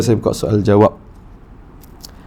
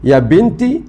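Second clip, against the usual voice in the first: plain address; 7 semitones higher, slower than usual. Shown as a demonstration. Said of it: "Kalau perempuan".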